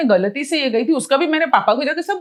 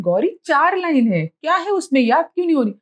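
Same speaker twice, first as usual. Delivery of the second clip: frustrated self-scolding; 3 semitones higher than usual. Retold or imitated. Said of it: "मैं अपने आप को बोल भी रही हूँ".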